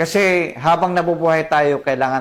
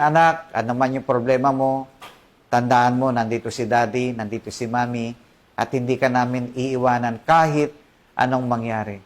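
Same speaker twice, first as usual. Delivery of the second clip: tender reassurance; 2 semitones lower than usual. Acted. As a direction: reassure the crying child gently. Parent comforting a crying child.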